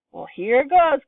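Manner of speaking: high, loud, bracing himself; loud call before swallowing the pills; eager cry. A narrator's reading. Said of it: "cried Grandpa George".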